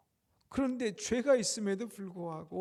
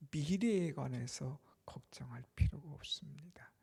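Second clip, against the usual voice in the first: normal talking voice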